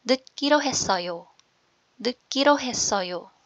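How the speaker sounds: 듣기로 했어요 said carefully as "deu-kkiro hessoyo"; proper pronunciation. Shown as a demonstration. Teacher reads the phrase aloud for learners, careful pronunciation. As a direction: model 듣기로 했어요 with a tight "kki" in the middle. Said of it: "basahin ko po with proper pronunciation".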